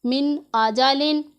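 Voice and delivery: slow, measured Quran recitation with a clear nun in मिन; Quranic recitation. Shown as a demonstration. Teacher reciting slowly for her students. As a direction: recite मिन आजालिन slowly, sounding the नून fully. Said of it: "नून की आवाज़ को पूरा निकालना है".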